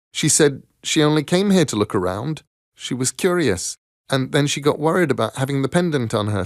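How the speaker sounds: a hint of a young girl telling family lore. Girl tells stranger of grandmother's pendant, lightly voiced.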